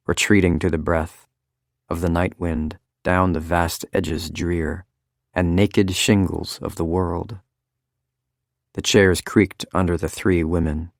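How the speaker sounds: halting low recital growing firmer; poem reading. A narrator's reading. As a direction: read Dover Beach aloud to the women, stumbling then steadying. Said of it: "low, stumbling voice that grew firmer".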